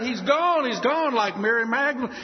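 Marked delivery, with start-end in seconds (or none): 0.0-1.1 high wailing grief; weeping. Acted. Widow weeping her eyes out, high wail. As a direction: wail it out, heartbroken. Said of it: "She just wept her eyes out".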